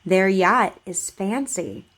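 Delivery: slow, careful model sentence for repeating; over enunciating. Shown as a demonstration. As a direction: say each word clearly and slowly. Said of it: "Just repeat after me".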